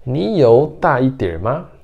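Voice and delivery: frase chinesa dita devagar, sílaba por sílaba; "Ni you da iter ma?" pronunciado devagar e claro; demonstração de chinês. Shown as a demonstration. (professora demonstrando chinês devagar)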